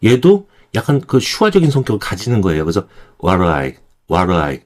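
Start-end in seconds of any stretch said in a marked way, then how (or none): 3.2-4.6 "what I" run together as WA-ru-ai; reduced linking. Shown as a demonstration. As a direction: say "what I" as one word, weak flapped middle. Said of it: "한 번에 발음을 해줍니다".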